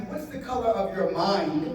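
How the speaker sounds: slow, pointed question. Shown as a demonstration. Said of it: "if I were to ask you".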